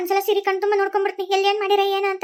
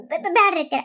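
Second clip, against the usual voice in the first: sobbing refusal; 3 semitones lower than usual. Acted. Daughter-in-law refuses sobbing.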